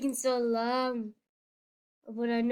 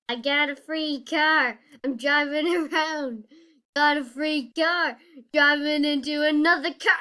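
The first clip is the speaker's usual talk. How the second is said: gleeful; 3 semitones higher, 6 dB louder than usual. Real, not acted. Driving around gleefully.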